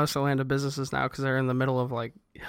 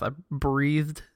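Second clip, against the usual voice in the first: unsure word; slower than usual. Real, not acted. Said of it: "what's the past tense of".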